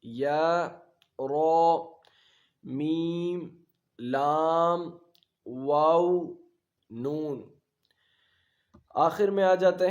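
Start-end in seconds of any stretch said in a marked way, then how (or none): 0.0-7.4 each letter name called out distinctly; letter recitation. Shown as a demonstration. Teacher reciting letters for children, distinct calls. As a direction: drill the letters one by one. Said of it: "حروف یرملون".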